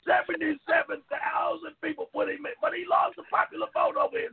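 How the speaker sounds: heated, rising rant; angry rant. Real, not acted. Cohost ranting at a Trump fan on air, angry. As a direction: vent it hard at the caller.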